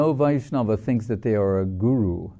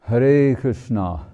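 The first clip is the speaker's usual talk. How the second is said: slow, louder call of Hare Krishna; 3 semitones higher, 5 dB louder, slower than usual. Shown as a demonstration. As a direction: sing out the name slowly. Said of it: "You can whisper".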